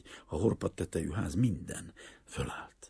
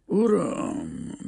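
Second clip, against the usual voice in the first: high, raised, deliberate address; slow, earnest; 13 semitones higher, 8 dB louder than usual. A narrator's reading. Greek father gravely addressing the banker, slow and earnest. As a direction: begin solemnly, with care. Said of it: "lassan, komolyan, nagyon megfontoltan".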